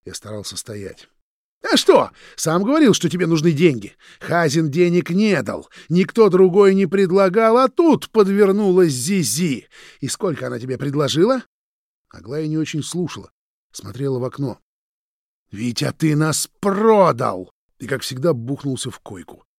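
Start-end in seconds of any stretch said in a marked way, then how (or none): 1.6-11.4 high, loud heated tirade; angry accusation. A narrator's reading. Roman interrogating Vitya about the bribe, angry. 15.5-17.5 loud, slow betrayed cry; bitter accusation. A narrator's reading. Roman telling Vitya he sold them out, bitter.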